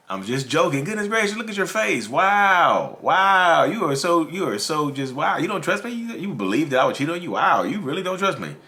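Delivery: high, exaggerated amazement at being doubted; mock indignation. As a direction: turn the blame with theatrical disbelief. Acts out cheater feigning amazement.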